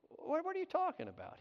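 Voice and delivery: high-pitched, stammered bafflement; baffled question. Retold or imitated. Pastor answering the driver over lunch, baffled high-pitched question. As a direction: retell being puzzled, voice jumping up.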